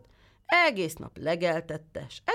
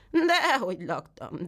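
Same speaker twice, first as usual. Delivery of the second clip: a lightly voiced goat, higher and slow, protesting; whining goat; 5 semitones higher, 3 dB louder, slower than usual. The goat lies to the tailor, lightly whining. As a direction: complain like a mock-hungry goat.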